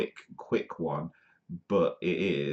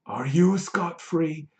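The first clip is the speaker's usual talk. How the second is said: high playful question; 10 semitones higher, 4 dB louder, slower than usual. Acted.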